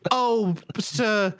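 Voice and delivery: high, wailing grief then a threat; lightly sobbing servant accusing the stranger; weeping servant. Acted. Servant mourning his master, high and wailing, then threatening. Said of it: "One of 'em starts just weeping".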